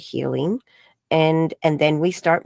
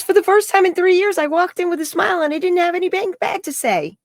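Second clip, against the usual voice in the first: higher, louder, lightly voiced delighted report; mock therapist voice; 14 semitones higher, 5 dB louder, faster than usual. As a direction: relay the good news with bright glee.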